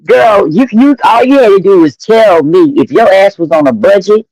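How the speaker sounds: imitating Tracy. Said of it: "Tracy say".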